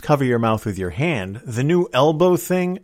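usual speaking voice

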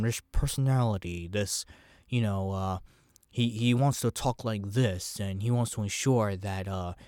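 a botched Owen Wilson that slides into Walken; Christopher Walken-ish voice. Acted. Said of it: "more Christopher Walken than Owen Wilson".

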